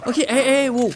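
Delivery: loud, high warning shouts; calling out. Real, not acted. Player yelling at the game to protect the dog, calling out. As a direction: shout to stop an attack.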